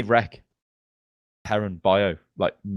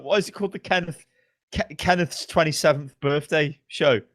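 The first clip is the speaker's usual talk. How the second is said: puzzled viewers; 6 semitones higher than usual. Acted. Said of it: "It'll just be like".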